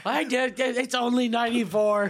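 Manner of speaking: mock high squeal. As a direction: squeal it, cracking up. Mocking friend's phone rant.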